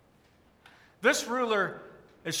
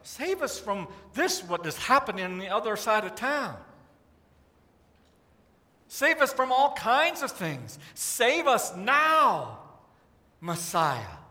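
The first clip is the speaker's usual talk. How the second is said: crowd pleading. Retold or imitated. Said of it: "people are yelling".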